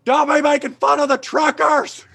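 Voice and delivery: high, put-on heckler voice; mock angry trucker yelling from the back. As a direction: bark it like a drunk trucker heckling.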